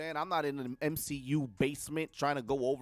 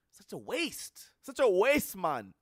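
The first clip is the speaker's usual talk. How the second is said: put-on Jamaican accent, drawn out then louder; 3 semitones higher, 4 dB louder, slower than usual. Fan trash-talking a wasted movie character, Jamaican accent. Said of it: "I throw that Jamaican accent on".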